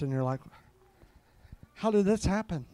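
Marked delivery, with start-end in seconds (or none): 1.7-2.7 quietly baffled, slightly raised pitch; higher-pitched, puzzled question; acted bewilderment. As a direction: wonder aloud in mild disbelief. Acting out amazed reaction to sudden answer.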